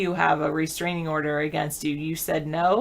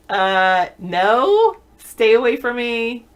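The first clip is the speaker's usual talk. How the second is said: firm rejection; 2 semitones higher, 6 dB louder, much slower than usual. Retold or imitated. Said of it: "I'd be like".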